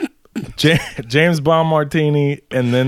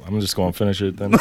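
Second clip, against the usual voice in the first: laughing; 3 semitones lower, faster than usual. Real, not acted. Laughs while deciding to chug.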